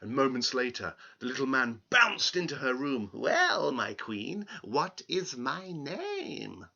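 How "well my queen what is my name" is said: sly question. Acted. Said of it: "with a sly grin".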